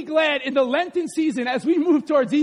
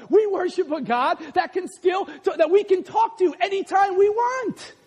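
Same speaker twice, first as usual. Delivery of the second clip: jeering, raised pitch, rising to fervour; mock them, then proclaim with conviction; Elijah; 4 semitones higher than usual. Prophet scoffing at rivals' inanimate god, mocking then fervent. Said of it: "He's laughing at this point".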